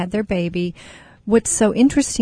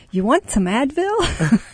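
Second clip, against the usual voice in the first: beaming voice; 6 semitones higher than usual. Retold or imitated. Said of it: "In this beaming voice".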